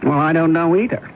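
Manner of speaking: a cool, dismissive businesswoman brushing off a stranger; cold executive woman. Acted. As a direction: keep it icy and detached. Drama scene, woman rebuffs visitor.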